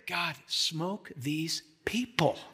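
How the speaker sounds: slow, low, sour demand for judgment; grumbling Jonah. Retold or imitated. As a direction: drag it out like a resentful prophet. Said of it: "Two chapters later".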